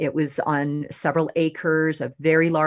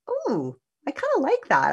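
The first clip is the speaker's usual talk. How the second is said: pleased ooh; 10 semitones higher than usual. Retold or imitated. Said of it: "And I went".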